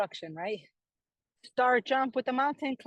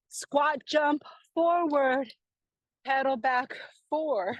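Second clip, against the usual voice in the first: calling out; 5 semitones higher, 4 dB louder, slower than usual. Real, not acted. Coach calling next exercise.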